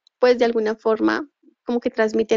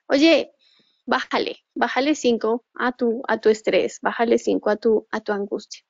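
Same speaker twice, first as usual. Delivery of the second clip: inner voice soothing. Retold or imitated. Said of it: "la voz interior te está diciendo".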